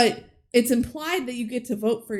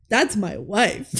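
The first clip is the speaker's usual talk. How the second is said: laughing; 4 dB louder, slower than usual. Retold or imitated. Retelling movie, laughing quote.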